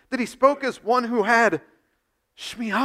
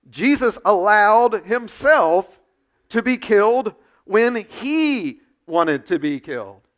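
very slow, louder, each word set down; slow and weighty; 7 dB louder, slower than usual. Real, not acted. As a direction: drag it out for weight. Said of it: "emphatic sermon point".

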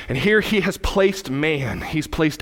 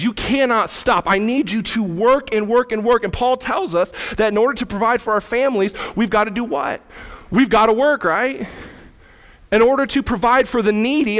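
raised-pitch, driving sermon delivery; insistent preaching; 6 semitones higher than usual. Real, not acted. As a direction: press the point home to the church.

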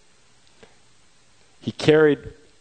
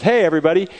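loud, high hail to the whole crowd; calling out to a crowd; 7 semitones higher, 4 dB louder, faster than usual. Acted. Pilate hails the crowd before offering a prisoner, loud high call. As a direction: raise your voice to get the crowd's attention.

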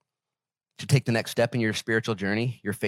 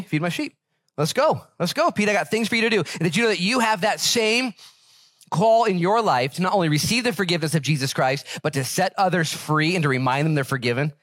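higher, fervent preacher voice lifting the verse; preaching at full force; 6 semitones higher than usual. Acted. Pastor to his congregation, fervent full-force preaching. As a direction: preach it out to the whole church.

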